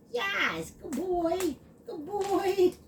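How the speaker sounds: high, sing-song praise for the puppy; high doggy-talk praise. Real, not acted. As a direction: coo at the dog.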